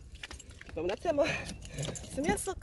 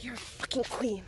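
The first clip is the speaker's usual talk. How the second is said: voice of the universe; 3 semitones lower, 6 dB quieter than usual. Pretend. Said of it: "The universe is like".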